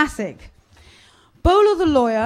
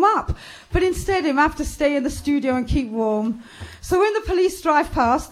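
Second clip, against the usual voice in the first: animated Jamaican patois storytelling; 3 semitones higher than usual. Acted. Family Man insists it wasn't his fault, in Jamaican patois. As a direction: voice an aggrieved musician in Jamaican patois.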